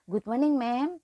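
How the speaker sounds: a light, smiling good morning, only lightly acted; smiling greeting. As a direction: greet your boss with a small polite smile. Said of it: "Dengan senyum ya". (sapaan pagi sambil tersenyum sopan)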